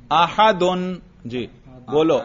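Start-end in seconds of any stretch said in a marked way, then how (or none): 0.1-0.9 "احدن" with the full -un ending sounded; اعراب کے ساتھ. Shown as a demonstration. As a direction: say "احدن" as a-ha-dun, ending clearly pronounced. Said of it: "اس کو اعراب کے ساتھ بولنا ہے". ("احدن" کے آخر میں دو پیش، یعنی اَحَدُن)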